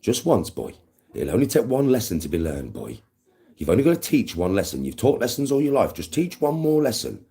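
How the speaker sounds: lightly voiced little devil egging himself on; inner evil voice. His evil side goads him to teach a lesson, lightly voiced goading. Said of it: "little evil bastard inside me saying".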